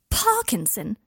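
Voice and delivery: comical gasp. Acted. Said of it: "unintentionally comical gasp".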